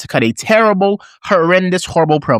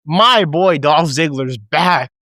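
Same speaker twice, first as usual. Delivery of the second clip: excited pop; 2 semitones higher, much slower than usual. Retold or imitated. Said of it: "I popped so loud for this".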